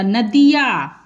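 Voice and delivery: "नदिया" with a long final आ; drawn-out ending. Shown as a demonstration. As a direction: stretch the या at the end of "नदिया". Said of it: "या को खींच के बोलना है पूरा". ("नदिया" में या को खींच के बोलें)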